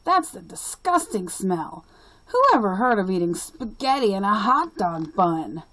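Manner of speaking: put-on a bully hollering at the girls, loud. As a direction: jeer across the lunch table. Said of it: "Ralph hollered".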